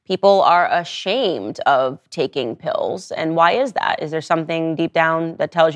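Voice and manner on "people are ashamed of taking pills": uncomfortable listener. Acted. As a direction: voice an uneasy fan squirming out of the question. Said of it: "have to be immediately uncomfortable".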